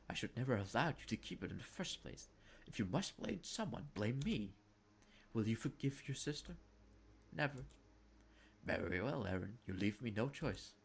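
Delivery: lightly voiced stern mother, measured; a hint of a stern Victorian mother. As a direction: speak as a disapproving mother. Mother continues scolding.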